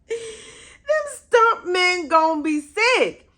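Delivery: high, squealing through laughter; laughing. Real, not acted. Fan cracking up over the stuntmen, laughing.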